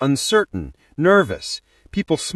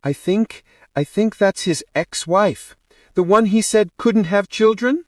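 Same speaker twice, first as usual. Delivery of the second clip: uncomfortable; 7 semitones higher than usual. A narrator's reading. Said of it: "Uche shifted uncomfortably".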